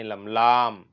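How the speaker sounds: लम said short, then लाम with a long aa. Shown as a demonstration. Teacher contrasting wrong लम with correct लाम. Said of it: "लम नहीं है".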